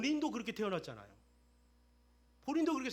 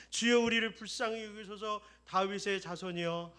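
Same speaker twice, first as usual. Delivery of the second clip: louder plea, the same cry pushed harder; 8 dB louder than usual. A narrator's reading. Blind men crying louder to Jesus over the crowd, louder plea. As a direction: cry it out again, more desperate than the crowd. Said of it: "더욱 소리질러 이르되".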